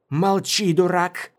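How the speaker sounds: high, exasperated character yell; short high-pitched angry outburst. A narrator's reading. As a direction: yell it high, shutting someone up. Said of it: "снова заорала Мара".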